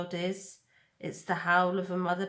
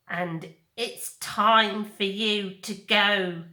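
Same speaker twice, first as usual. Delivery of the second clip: slow, louder bear growl; 5 dB louder, slower than usual. Acted. Bear Thorn growling at the robot, slow and louder. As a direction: growl the threat slowly. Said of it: "growled Thorn".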